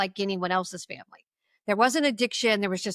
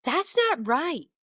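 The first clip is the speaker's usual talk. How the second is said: roommate's flat verdict; 6 semitones higher, much slower than usual. Retold or imitated. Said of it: "And she goes".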